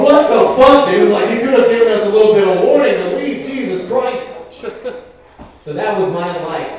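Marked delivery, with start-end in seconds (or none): 0.0-4.3 loud, high-pitched indignant protest; appalled yelling, pitched way up; horrified outburst. Acted. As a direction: shout it like a scandalized onlooker. Acts the horrified pet walked in on.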